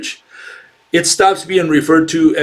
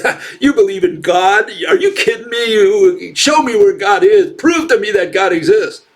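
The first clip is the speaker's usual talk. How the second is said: higher, scoffing, taunting challenge; a touch of mocking laughter in a raised voice; 5 semitones higher than usual. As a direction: sneer at the believer like a smug skeptic. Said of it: "laughs at the other guy and says".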